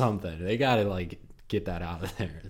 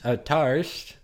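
put-on British accent; 5 semitones higher, 5 dB louder than usual. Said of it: "you're doing a British accent".

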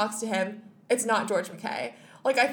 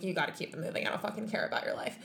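rude publicist; 2 semitones lower, 8 dB quieter, faster than usual. Retold or imitated. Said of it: "this publicist lady is like".

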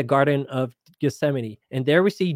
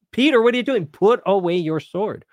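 higher-pitched, startled scolding of a disciple; mock-exasperated reprimand, pitched up at the start; exasperated rebuke; 5 semitones higher than usual. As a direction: act out pulling a follower up short. Acts out Jesus rebuking Peter.

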